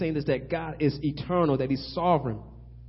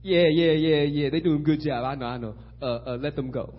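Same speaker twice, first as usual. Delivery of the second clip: mock agreement; 3 dB louder than usual. Preacher playing Pharaoh letting the slaves go, mock agreeable. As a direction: agree too easily, trailing down as if waving it off.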